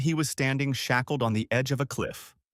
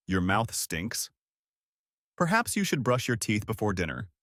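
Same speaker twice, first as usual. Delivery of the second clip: bold. A narrator's reading. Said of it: "The young man boldly said".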